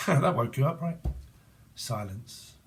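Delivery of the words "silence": hushed. Shown as a demonstration. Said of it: "Silent whisper".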